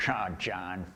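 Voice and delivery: soothing, unhurried teacher; mellow mentor. Retold or imitated. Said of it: "And he'd be like".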